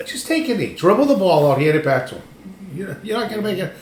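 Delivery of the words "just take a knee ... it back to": exasperated plea. Retold or imitated. Imploring the other team.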